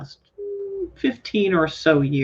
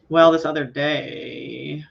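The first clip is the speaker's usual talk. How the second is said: glottal fry; 4 dB louder, much slower than usual. Shown as a demonstration. Host tries glottal fry demo.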